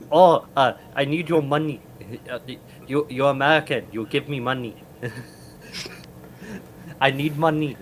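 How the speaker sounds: faltering mock Russian scammer accent. Russian scammer begging for money, soft mock Russian accent. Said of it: "say it like this".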